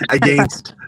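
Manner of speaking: put-on laughing Canadian accent on "Against". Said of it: "hear the Canadian accent".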